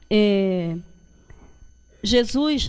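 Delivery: normal talking voice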